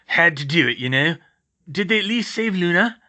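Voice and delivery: loud rustic big-man voice; gruff, concerned gamekeeper; Hagrid, anxious. Acted. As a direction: ask hopefully after a lost friend.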